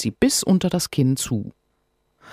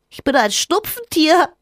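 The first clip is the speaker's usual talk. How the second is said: high, louder, giggly creature voice; laughing little creature; 5 dB louder than usual. Acted. The cold creature introduces itself to Sophia, laughing brightly. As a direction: chirp it like a tiny cheerful sprite. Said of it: "lacht das kleine Wesen".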